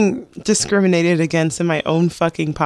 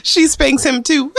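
higher, laughing through the words; 9 semitones higher than usual. Real, not acted. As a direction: crack up while saying it. Topping the joke, laughing.

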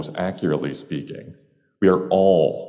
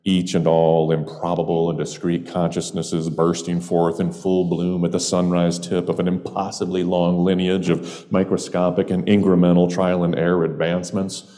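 long-winded answer. Pretend. Stranger philosophising to a bartender, long-winded and building in fervour. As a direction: pile up the phrases, swelling towards the end. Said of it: "that long-winded answer".

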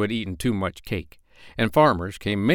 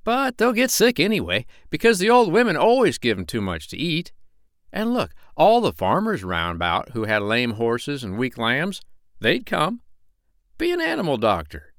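chatty tradesman's voice, a bit higher; cat's meat man; 5 semitones higher than usual. Acted. Cat's meat man urging the doctor, lightly voiced eager hawker.

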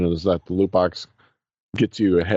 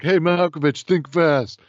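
heckling trucker; 8 semitones higher than usual. Retold or imitated.

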